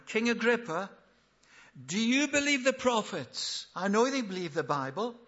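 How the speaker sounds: high, loud, ringing question; impassioned challenge. Acted. Paul replies before King Agrippa with an impassioned challenge. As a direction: put it forcefully to the king.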